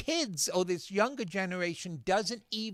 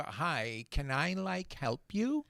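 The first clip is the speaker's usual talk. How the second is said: softer mock customer-service voice with upturn; affected greeter; 5 dB quieter, slower than usual. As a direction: lightly imitate a filler-speaking shop worker, rising at the end. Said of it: "and their voice".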